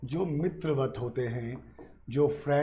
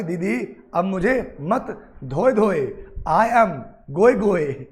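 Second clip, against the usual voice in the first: slow, louder hammed-up pleading whine; mock pleading meme; 3 semitones higher, 6 dB louder, slower than usual. Teacher playing the meme begging students, slow mock whine. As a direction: drag it out like a begging cartoon meme. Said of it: "मोए मोए बोलेगा कि".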